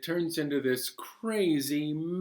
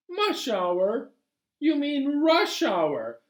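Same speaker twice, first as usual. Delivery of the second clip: puzzled question; 11 semitones higher, slower than usual. Acted. Narrator questioning.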